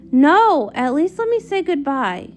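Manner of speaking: desperate cry. Acted. Celestia begging the wizard not to close the portal, desperate cry. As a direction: cry out to stop him. Pleading before the door closes.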